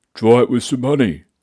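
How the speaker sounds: gruff, growling bear voice. Reading a Goldilocks story aloud, giving Papa Bear's growl. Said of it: "growled Papa Bear".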